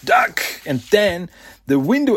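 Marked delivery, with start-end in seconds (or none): 0.0-0.4 baffled squawk. Retold or imitated. Boss startled by a warning to duck, high and baffled. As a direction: jump up in confused alarm. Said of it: "And he's like".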